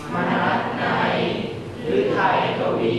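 poem recitation. Acted. Student reciting a Thai poem for the teacher, chanted.

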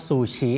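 "ซูชิ" said the Thai way, first vowel long; Thai-style "ซูชิ" with a long first syllable; Thai pronunciation. Shown as a demonstration. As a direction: draw out the ซู in "ซูชิ". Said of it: "คนไทยเราเรียกว่า".

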